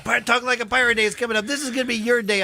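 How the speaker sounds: high, quick, playful teasing; ribbing a friend with glee; excited teasing. Retold or imitated. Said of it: "I had people like".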